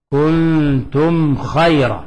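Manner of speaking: very slow chanted verse; slow recitation. Shown as a demonstration. Teacher recites the example verse, slow chant. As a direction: stretch the verse out calmly. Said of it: "عندك ميم ساكنة".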